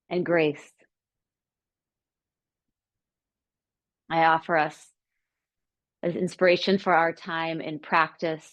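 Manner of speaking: measured, reflective guidance with long pauses; calm meditation teacher, pausing between phrases; guided meditation. Acted. Leads reflection within meditation.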